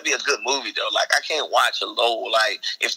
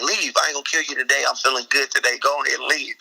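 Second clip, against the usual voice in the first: higher-pitched mock thug sending someone off; acted-out robber; 4 semitones higher than usual. Would-be thug dismissing the lady he robbed, mock tough. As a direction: play at being the lenient robber. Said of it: "I do this whole act out".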